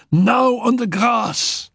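high, laughing taunt; mocking command. Annette taunts Félicie to kneel, high and laughing. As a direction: tease her down to her knees.

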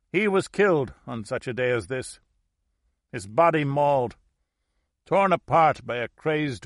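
put-on an elderly woman reliving a horror; old woman voice. Old woman recounts husband's death.

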